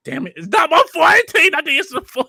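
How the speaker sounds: high, loud, fast laughing protest. Real, not acted. Laughing mock self-defence.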